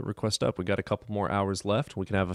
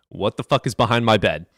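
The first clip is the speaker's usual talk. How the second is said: louder, alarmed demand; alarmed exclaim; 7 dB louder than usual. Retold or imitated. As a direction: raise it in startled alarm. Retold alarm at the bed.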